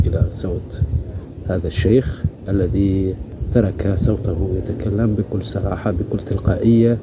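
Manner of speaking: measured radio presenter voice; formal podcast intro read; podcast host read. Acted. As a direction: announce it to the listeners.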